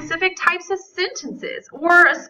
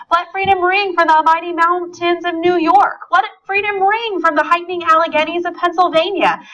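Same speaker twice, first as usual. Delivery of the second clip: lightly declaimed speech, pitched up; oratory reading; 4 semitones higher than usual. Shown as a demonstration. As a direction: read it like a great orator, modestly. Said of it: "gives this speech much better than I do".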